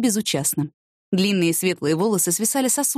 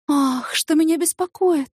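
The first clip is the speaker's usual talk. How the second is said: slow, drawn-out mocking repeat; drawled; 9 semitones higher, slower than usual. A narrator's reading. Asya to Yana, drawn-out mocking echo. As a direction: stretch each word out teasingly. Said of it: "протянула Ася".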